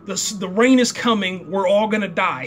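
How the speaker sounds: half-hearted retold shout; retold yelling. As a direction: imitate a man yelling out a warning. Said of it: "he's yelling out".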